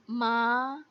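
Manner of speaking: माँ drawn out, gliding upward; second-tone माँ, rising. Shown as a demonstration. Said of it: "हर tones के साथ".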